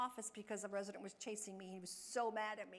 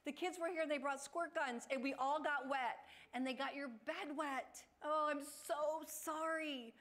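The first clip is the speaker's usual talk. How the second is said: sympathetic play-along; 4 semitones higher than usual. Retold or imitated. Staff playing along, apologizing.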